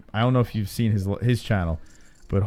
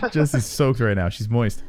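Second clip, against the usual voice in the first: ordinary talk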